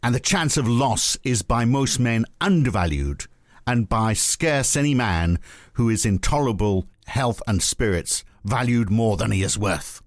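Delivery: put-on slow, high, heavy Scottish accent quoting Adam Smith; George Galloway Scottish. Reading Smith's quote aloud to the host in a hammed-up Scottish accent. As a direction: draw out a mock Scottish orator's delivery. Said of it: "I'll do it as George Galloway".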